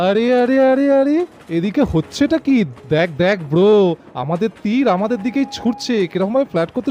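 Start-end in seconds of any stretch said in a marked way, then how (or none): 0.1-2.6 high, slow incredulous protest; indignant surprise. Acted. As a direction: stretch out the outrage.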